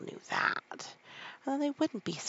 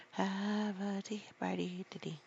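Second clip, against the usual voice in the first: whispered take; 6 dB quieter than usual. Shown as a demonstration.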